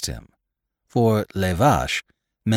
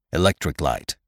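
"Electric" stressed, falling away on "light"; mild emphasis on "Electric"; emphasized; 4 semitones lower than usual. A narrator's reading. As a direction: lean on "Electric" in a lower voice. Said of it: "he emphasized".

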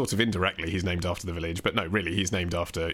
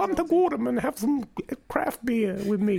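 botched Boston Batman, pitched way up; badly faked Boston accent. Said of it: "do it in a Boston accent".

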